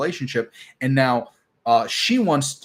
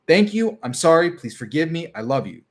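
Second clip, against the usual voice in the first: recited mantra; 3 semitones higher than usual. Shown as a demonstration. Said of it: "I teach everybody, is freaking Ho'oponopono".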